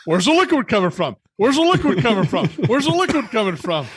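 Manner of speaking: high-pitched, repeated baffled question; mock bewilderment. Retelling his search for a leak at his table, comically bewildered. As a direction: act out mounting bafflement, pitch lifting.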